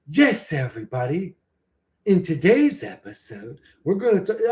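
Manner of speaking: lightly voiced fake spiritual host; mock YouTube guru. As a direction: parody a put-on video guru. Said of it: "They're like".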